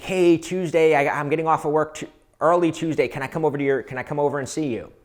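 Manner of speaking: mild, playful imitation of an excited ask; mildly excited. Woman asking to come over after work, mildly excited. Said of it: "she's really excited".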